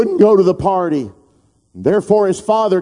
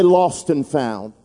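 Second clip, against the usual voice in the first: preacher prompting the echo; call and response; 6 semitones lower, slower than usual. Shown as a demonstration. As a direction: invite the congregation to echo.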